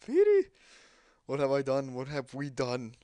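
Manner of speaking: high, desperate yell of a name; anguished wailing shout. Acted. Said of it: "the guy's just yelling".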